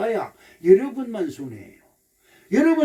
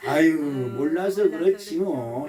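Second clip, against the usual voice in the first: slow, low "아유" easing into acceptance; drawn-out, understanding sigh; forgiving intonation; 5 semitones lower than usual. Shown as a demonstration. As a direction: say it as if gently excusing someone. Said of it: "이 말의 억양이 참 중요해".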